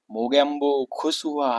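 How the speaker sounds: slow, lightly voiced villain line; a hint of the gloating Mogambo. Teacher quoting Mogambo for students, lightly voiced. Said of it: "क्या बोलता है बार-बार".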